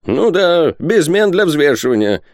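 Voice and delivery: high, irritated retort; impatient. A narrator's reading. Rosette cutting through long negotiations, impatient. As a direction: repeat it sharply, fed up with haggling. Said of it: "нетерпеливо повторил Пальмирен Розет".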